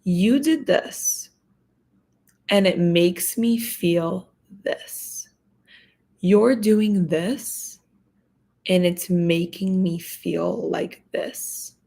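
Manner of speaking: slow, even and steady; calm demo. Shown as a demonstration. Showing viewers how to calmly tell someone how they feel. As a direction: model a calm, firm statement. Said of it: "point them out calmly".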